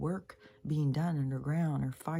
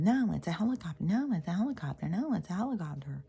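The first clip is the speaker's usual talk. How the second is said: higher, fast sing-song mockery; mocking a know-it-all; 4 semitones higher, faster than usual. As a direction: parrot the dismissive commenter. Mocking Taylor's dismissive comment.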